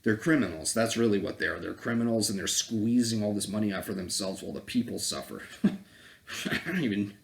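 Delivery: ordinary talk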